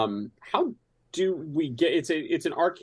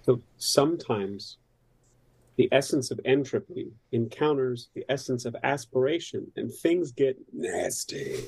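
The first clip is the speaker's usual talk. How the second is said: hive voice. Acted. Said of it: "it's like the hive voice".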